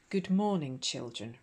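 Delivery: nervous croak of a greeting; croaky. Acted. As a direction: croak it out, voice failing. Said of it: "responded Anna in a croak".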